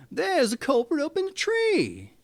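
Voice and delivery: high, loud shout of alarm; shouting boar. A narrator's reading. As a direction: cry it out like a fleeing boar. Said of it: "ran away shouting".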